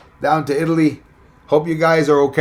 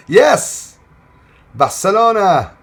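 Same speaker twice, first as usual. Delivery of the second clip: loud, higher happy shout of the city; excited cheer; 5 semitones higher, 5 dB louder, slower than usual. Real, not acted. Streamer cheers a Barcelona viewer, excited shout. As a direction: cheer it like a fan.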